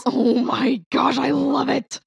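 high, drawn-out excited squeal; real delighted enthusiasm, stretched out; gushing delight. Real, not acted. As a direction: gush slowly in a high pitch. Delighted reaction to a new segment.

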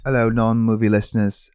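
put-on British greeting; light-hearted fake British voice; British accent. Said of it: "talking in the British accent".

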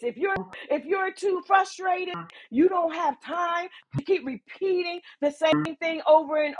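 sharp, building rebuke; rising rebuke. Acted.

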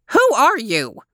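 high, strong screechy voice; screechy old woman. A narrator's reading. Old woman questioning her visitor, high and screechy. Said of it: "surprisingly strong voice. It was high and screechy".

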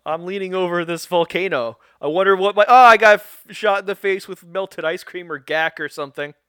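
mock cartoon panic, rising to a loud yelp; goofy sitcom goon. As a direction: ham up a clumsy goon getting splatted. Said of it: "a Bulk and Skull trying to fight".

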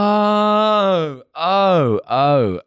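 real loud, high-pitched dawning "oh"; sudden realisation. Real, not acted. Learning it is a singer's daughter, sudden realisation. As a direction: let the penny drop, stepping down in pitch.

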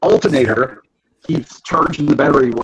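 glitchy robotic connection voice; choppy robot voice over a bad line. Real, not acted. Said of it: "You were sounding like a robot".

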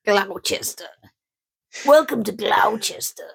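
hammed-up whisper of a radio host; mock DJ voice. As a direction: breathe it like a sleazy late-night DJ. Mock radio ident continued.

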